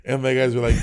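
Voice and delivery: ordinary talk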